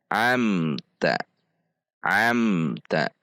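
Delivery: amta with M held briefly, then ta; clear izhar. Shown as a demonstration. Teacher models correct amta, clear unbounced M. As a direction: join amta without jerk, bounce or drag. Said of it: "Namun dibaca".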